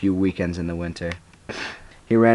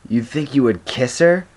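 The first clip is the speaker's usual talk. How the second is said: higher, incredulous question; exclaiming; 5 semitones higher, 4 dB louder than usual. A narrator's reading. Boy quizzing his friend about kissing a girl, exclaiming. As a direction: exclaim it with raised pitch. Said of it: "James exclaimed".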